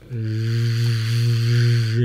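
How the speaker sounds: Z buzzed loud and long like a bee; buzzing z. Shown as a demonstration. Teacher showing the letter's sound to students, loud bee buzz. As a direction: hold a voiced buzz on Z like a bee. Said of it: "jadi kayak suara lebah".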